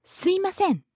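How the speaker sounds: "Sumimasen" run together, the first m dropped; casual contracted form. Shown as a demonstration. Co-host showing how she really says it, casual contraction. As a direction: slur "Sumimasen" into "suimasen". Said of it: "how do you say it".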